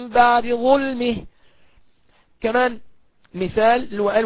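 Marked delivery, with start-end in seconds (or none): 0.1-1.2 very slow بعد ظلمه with a faint snatched vowel on the د; just touch the dal's vowel; vowel snatching. Shown as a demonstration. Teacher demonstrating the snatched-vowel reading. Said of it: "نقرأ بالاختلاس هكذا".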